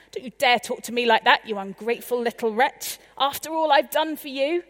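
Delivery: fast, loud angry parent; shouting back. Pretend. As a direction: snap back at the child. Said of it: "Do I shout back?".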